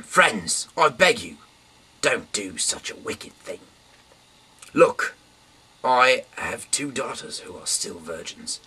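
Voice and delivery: loud, high desperate plea; frantic host pleading with a mob. Acted.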